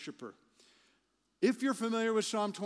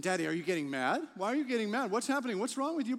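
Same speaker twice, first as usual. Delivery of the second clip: put-on puzzled child; 3 semitones higher, 3 dB louder, much faster than usual. Child voiced in a story.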